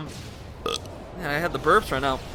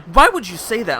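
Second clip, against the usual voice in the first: mock angry girl; 3 semitones higher, 6 dB louder than usual. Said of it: "she got mad at us".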